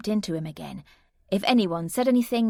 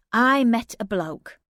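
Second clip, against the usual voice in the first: slow, louder admission; reluctant confession; 5 semitones higher, 5 dB louder, slower than usual. Acted. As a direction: own up, slowly. Narrator confesses.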